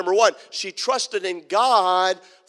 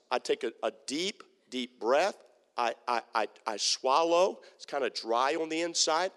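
hushed, lower nervous gulp; mock nervous dread; 6 semitones lower, 5 dB quieter than usual. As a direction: play the scared pastor swallowing hard. Pastor acts out nervousness.

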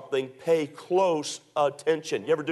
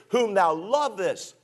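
slow, with weight on "lovest"; drawn-out verse stressing "lovest"; emphatic scripture reading; 2 semitones higher, slower than usual. Shown as a demonstration. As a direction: lean on "lovest" as you read. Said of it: "Notice the emphasis".

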